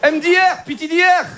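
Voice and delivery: put-on high comic Arab accent spelling out letters; put-on North African accent. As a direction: read chat slang in a Moroccan accent. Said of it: "l'accent arabe".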